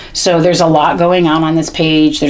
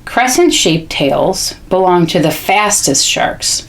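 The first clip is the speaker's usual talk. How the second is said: read-aloud; slower than usual. Shown as a demonstration. Models reading aloud to child.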